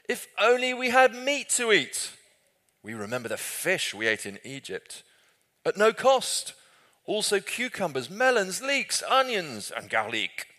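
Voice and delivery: hammed-up French accent, high and loud, wailing for food; mock French accent. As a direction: whine like a homesick French gourmet. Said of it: "They probably didn't speak in a French accent".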